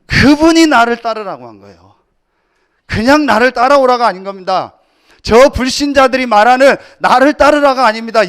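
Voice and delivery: loud, ringing pulpit proclamation; loud sermon climax; full-force preaching. Acted. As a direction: preach it out to the whole congregation.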